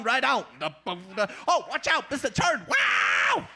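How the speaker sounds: lightly voiced soul singer shouting directions; a hint of a famous soul singer's funky hollers; mild soul singer impression. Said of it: "a famous soul singer, maybe?".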